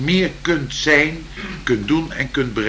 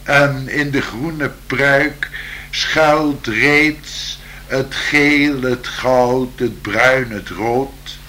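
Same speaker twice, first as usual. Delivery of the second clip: slow, lilting poem reading; poem recital; slower than usual. Acted.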